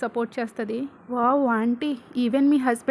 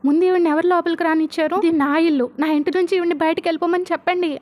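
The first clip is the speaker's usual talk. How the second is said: retold angry shout, louder and fast; 4 semitones higher, 5 dB louder, faster than usual. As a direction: push her away with a loud, rushed yell. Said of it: "అని అరుస్తుంది".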